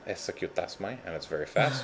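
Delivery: a light put-on Irish lilt on the words; jokey half-hearted Irish accent; mock Irish accent. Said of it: "Was that your Irish voice?".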